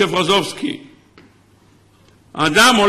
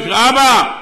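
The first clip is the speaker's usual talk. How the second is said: lightly raised call for father; mild acted cry; 3 semitones higher, much slower than usual. Preacher voices man facing desert tiger, mild cry. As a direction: call out, holding back the shout. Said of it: "הוא צועק".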